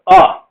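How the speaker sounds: bare Australian "uh", no R; dropped R. Shown as a demonstration. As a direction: sound out "uh" for final er. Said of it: "I'm not going to pronounce it".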